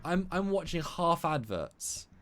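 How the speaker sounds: high, slow disbelieving complaint; incredulous. Retold or imitated. Viewer realising half the show is adverts, incredulous. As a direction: stay high and spell out the outrage slowly. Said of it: "I'm like".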